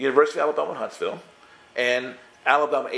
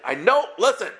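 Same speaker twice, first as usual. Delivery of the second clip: laughing through the excuse, pitch higher; laughing defense; 6 semitones higher than usual. Real, not acted. Preacher laughing as he retells his excuses to the student. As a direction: chuckle while protesting it wasn't your fault.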